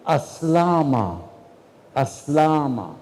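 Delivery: "aslama" slowly, stress on the middle syllable; Arabic word. Shown as a demonstration. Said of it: "there's a verb".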